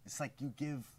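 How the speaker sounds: slow, weary voice with a lisp; lisping rapper impression. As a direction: play a tired star with a lisp. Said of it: "where did this lisp come from".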